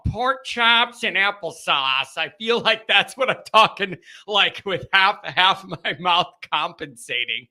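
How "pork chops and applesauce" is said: Bobby Brady quote. Retold or imitated. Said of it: "Bobby Brady ... going".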